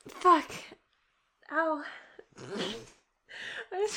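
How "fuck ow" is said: loud sudden outcry; pained yelp. Real, not acted. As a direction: yelp in pain. Knocked glass on tooth.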